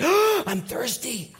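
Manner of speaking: slow, high, pitiful drawn-out whine; milk it like you're dying of thirst; mock desperate whine. Preacher mimicking a panicked neighbor in a slow, high, mock-pitiful whine.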